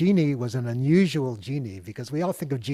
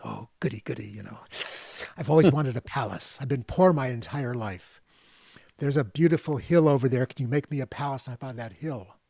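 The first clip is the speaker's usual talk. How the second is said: eager man; 5 dB louder than usual. Retold or imitated. Greedy man asks palace.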